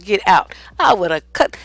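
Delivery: normal talking voice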